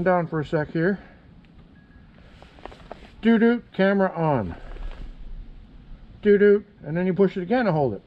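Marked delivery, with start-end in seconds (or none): 3.2-4.6 imitated device prompt. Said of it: "And it goes". 6.2-6.6 two-note electronic signal, voiced by mouth; imitated device chime. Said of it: "And it goes".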